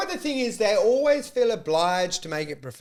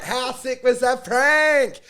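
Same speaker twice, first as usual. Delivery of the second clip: slow, drawn-out gloating yell; gleeful mock shout; 5 semitones higher, slower than usual. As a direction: crow over the prank. Prankster gloating after fake attack.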